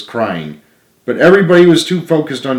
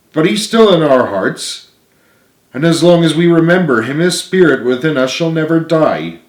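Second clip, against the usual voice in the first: Richard, higher and louder, consoling; comforting friend; 4 semitones higher, 3 dB louder than usual. Acted. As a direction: reassure him that Arthur lives on. Richard comforts grieving James.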